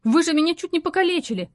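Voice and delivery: outraged she was nearly hurt; indignant outburst. A narrator's reading. Lara protesting to the stranger who nearly hurt her, indignant. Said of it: "возмутилась Лара".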